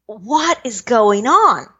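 distraught. Retold or imitated. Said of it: "I was so distraught".

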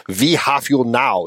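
slow, hammed-up comic-book German accent; a lightly put-on German accent, drawn out; mock German accent. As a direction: play the old comics' German villain accent for laughs. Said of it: "when the Germans were speaking".

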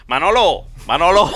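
put-on Spain Spanish accent, calling out Manolo; acento español. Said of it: "el chiste ese con acento español". (acento de España, llamando a alguien)

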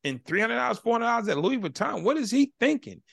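high, incredulous retold rant; dad retelling his shock at the bill; irate disbelief. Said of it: "I'm irate".

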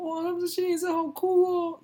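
put-on very high, squealing impressed girl; pitched far up, gushing wow; girl's excited voice. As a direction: gush like a starstruck student. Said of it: "然后他说".

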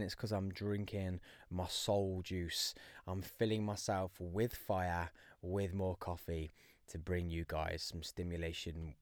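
playful whisper. Pretend. Joking whisper about drinking coffee.

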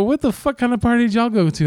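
a hammed-up what-the-fuck question; retold incredulous question. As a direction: ask it high and amazed. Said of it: "I go".

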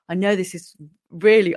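a light put-on American accent; mild mock American twang. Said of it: "I'm gonna drop the American accent now".

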